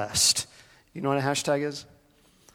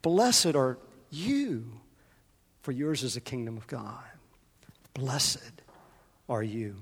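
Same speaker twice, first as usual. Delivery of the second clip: softer and slower, lingering on "Blessed"; soft slow blessing; 2 semitones lower, 7 dB quieter than usual. Real, not acted. Pastor speaking the blessing to Karen, soft and slow. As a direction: let it land quietly. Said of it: "I'm speaking to you, Karen".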